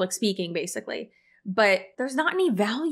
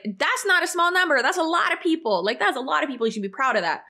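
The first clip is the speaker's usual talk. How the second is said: mock cheerleader voice; 5 semitones higher, faster than usual. Mock upbeat encouragement to speakers.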